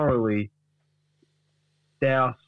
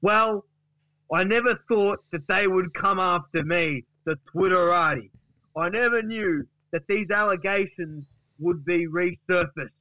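higher-pitched, put-on aggrieved declaiming; aggrieved Duck; 5 semitones higher than usual. Duck answers Gary about the allegations, aggrieved declaiming. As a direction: proclaim it high, like a wronged man. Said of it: "Wayne Duck says".

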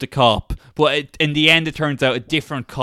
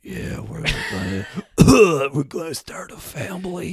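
mock old man voice. Old man answers, coughing.

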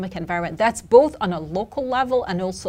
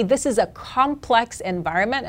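complex punched higher and firmly; stress on complex; 3 semitones higher than usual. Real, not acted. Analyst telling interviewer about tax reform, stress on complex. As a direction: lean on the word complex for emphasis. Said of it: "I would stress the word complex".

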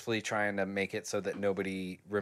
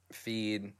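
ordinary delivery

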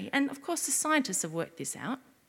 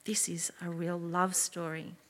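whisper; 4 semitones lower, 6 dB quieter than usual. Real, not acted. Preacher whispering to children about a real love story. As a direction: lean in and whisper it. Hushed aside in children's talk.

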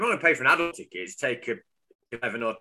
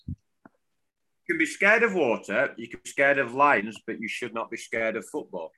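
said again slowly and clearly; slow, deliberate repeat. Shown as a demonstration. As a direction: spell it out slowly for a bad line. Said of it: "you're gonna have to say that again".

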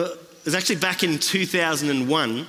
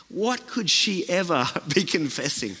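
a laugh breaking into an incredulous question; laughing disbelief. Retold or imitated. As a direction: chuckle at the idea she has anything to confess. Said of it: "I was like".

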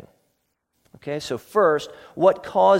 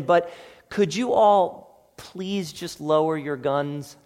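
overly polite cop; 3 dB louder than usual. Retold or imitated. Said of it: "he goes in and he says".

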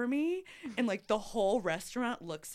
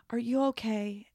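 whispered concern; 2 semitones higher than usual. Retold or imitated. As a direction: whisper it gently to a crying stranger. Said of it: "this woman was so sweet".

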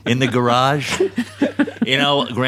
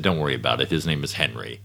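horrible Australian; 9 semitones lower, 6 dB quieter than usual. Retold or imitated. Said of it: "That was a horrible Australian".

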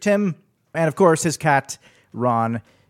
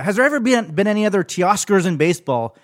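higher, curious quoted question; imitating a question; 5 semitones higher, 3 dB louder than usual. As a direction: mimic the producer's stat request. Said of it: "you were like".

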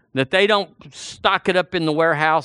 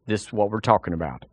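ordinary delivery

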